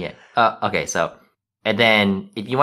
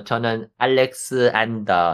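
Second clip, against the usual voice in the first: "알렉산더" with Korean syllables; Korean-accented rendering of an English name; Korean pronunciation; much faster than usual. Shown as a demonstration. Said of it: "pronounce it the way, uh, they'll understand".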